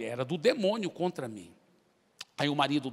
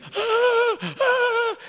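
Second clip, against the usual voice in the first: high, louder, strained cries of fear; trembling demon whimper; 8 dB louder than usual. Retold or imitated. Cowering demon in bed facing the preacher, loud high whimpers. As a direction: cry out like a demon shrinking in terror. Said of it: "ele encolhia na cama e tremia".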